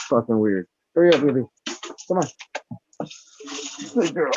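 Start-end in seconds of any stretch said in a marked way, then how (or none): 0.9-2.3 loud, high urging call; calling the dog. Real, not acted. 3.9-4.3 high praise for a dog; praising the dog. Real, not acted.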